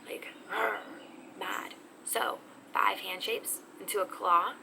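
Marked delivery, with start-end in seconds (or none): 0.5-0.8 bear growl. Pretend. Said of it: "you're kinda like a bear".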